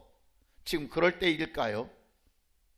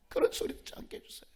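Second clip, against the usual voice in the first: fast whispered prayer; barely voiced, hurried supplication; hushed plea; 8 dB quieter, faster than usual. Real, not acted. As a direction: repeat the petition quickly under your breath. Same plea repeated under breath.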